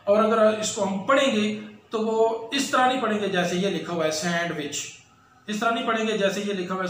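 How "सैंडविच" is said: सैंडविच with the d sounded, sand-wich; wrong pronunciation. Shown as a demonstration. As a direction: say सैंडविच as spelled, d pronounced. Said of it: "ये गलत pronunciation है". (सैंडविच में ड बोलकर गलत उच्चारण)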